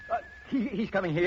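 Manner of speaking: startled, pitch climbing as panic hits; alarmed. Acted. Father hearing the killer coming, frightened. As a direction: voice jumps up in sudden fright.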